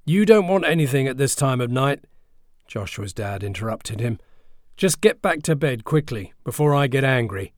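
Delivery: loud, high stern scolding; dad scolds the boy back to bed. Acted. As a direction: cut him off and order him to bed.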